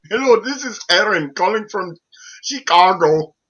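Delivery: a hint of an Indian accent, names stretched; lightly mock a foreign caller saying "Robert"; call-center caller imitation. Prank-story caller introducing himself, lightly accented mock. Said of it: "can't even pronounce your own name".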